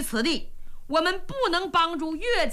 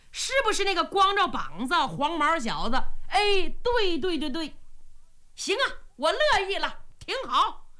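higher and quick, a lightly voiced boisterous girl; brash eager daughter; 5 semitones higher than usual. Daughter eagerly tells her father yes, higher and quick. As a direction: blurt it out, keen to marry.

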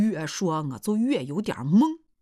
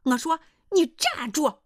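mild narrated shout, pitched up; calling out; 7 semitones higher than usual. Acted. Mother stops the departing suitor, mildly calling out. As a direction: call him to a halt, half-raised voice. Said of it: "我喊叫说".

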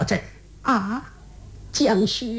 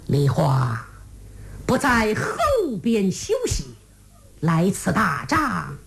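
put-on low, slow old general voice; stern old marshal; 4 semitones lower than usual. Father-in-law marshal questioning Lihua, low and slow.

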